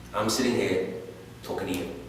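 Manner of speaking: low, hushed, solemn delivery; subdued. Acted. Veteran to his dead comrade's little boy, subdued. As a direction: let it drop low and soft.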